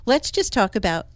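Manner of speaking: soothing a flustered homeowner at a color consult, softly; calming client down. Retold or imitated. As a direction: talk an anxious client off the ledge gently. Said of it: "'Cause I try to calm them down".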